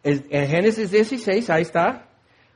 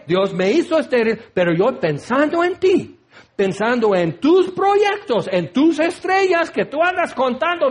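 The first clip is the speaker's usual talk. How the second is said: hammed-up nagging wife; 2 semitones higher than usual. Wife blaming her husband Abraham, hammed-up nagging. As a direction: whine the blame at the old man. Sara's quarrel with Abraham acted.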